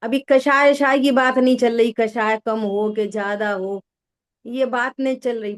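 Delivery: ordinary talk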